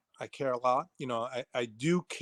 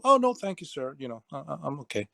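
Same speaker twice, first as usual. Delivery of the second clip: polite refusal. Retold or imitated. Student turning down his instructor's tea, politely retold. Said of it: "I'm trying to be polite".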